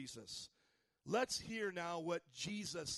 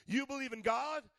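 higher and rising to a loud peak on God; building proclamation; 4 semitones higher, 4 dB louder than usual. Acted. Preacher voicing Jesus challenging listeners, building louder. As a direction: stack the questions until they burst. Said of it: "But Jesus talks like that".

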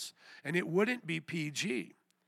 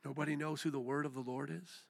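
hushed, let-down rising question; quiet disbelief; 2 semitones lower, 6 dB quieter than usual. Real, not acted. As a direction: drop right down and ask in disappointment. Disappointed that nobody answered.

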